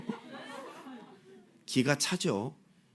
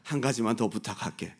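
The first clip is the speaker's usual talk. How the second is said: timid pleading. Retold or imitated. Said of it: "다시 어려워하면서".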